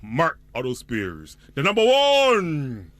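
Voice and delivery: upbeat announcer reading an ad; radio ad read. Acted. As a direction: sell it like a radio spot. Reads a radio ad.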